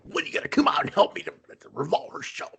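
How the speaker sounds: high put-on voice, rushed and fast; squeaky mock Sammy asking when he'll come help; Sammy's voice. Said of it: "in Sammy voice".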